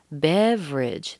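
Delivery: "beverage" slow, as BEV-ridge; missing syllable. Shown as a demonstration. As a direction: drop the second e of "beverage", drawn out. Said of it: "that second E".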